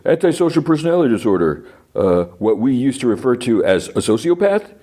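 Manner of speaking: imitating the lawyer who jumps on the diagnosis; mock incredulous. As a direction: toss it back like it's absurd. Lawyer's incredulous courtroom question.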